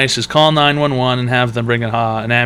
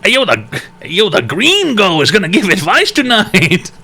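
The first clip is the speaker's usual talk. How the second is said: put-on slow voice; 6 semitones higher than usual. Put-on voice announcing gringo.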